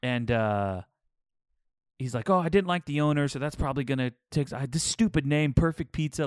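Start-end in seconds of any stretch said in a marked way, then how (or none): 2.3-5.5 lightly mimicked New England reviewer, a bit higher; imitated New England accent. Quoting pizza reviewer's gripe about owner, imitated New England accent. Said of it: "he's kinda got this thick accent". 5.5-6.3 higher-pitched mock scorn; imitated ripping on it. Quoting reviewer on a stupid pizza place name, mock scorn. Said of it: "He was ripping on the name".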